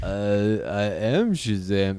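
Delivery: low, slow, laboured action-star impression; Vin Diesel. Actor retrying his one line, low and slow. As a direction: try the line deep and ponderous. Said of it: "No, Vin, you have more lines".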